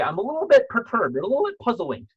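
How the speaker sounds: playful understatement. Shown as a demonstration. Coach showing a funny way to voice sadness, high and playful. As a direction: say it like it's barely a bother, sing-song. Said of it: "make it fun".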